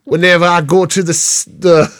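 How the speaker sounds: Jamaican attempt. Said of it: "it sounds Scottish though".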